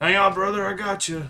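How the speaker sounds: loud, high, hollering shout. Voicing a character calling out to an ally mid-fight: character shouting. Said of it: "It's just gonna shout out".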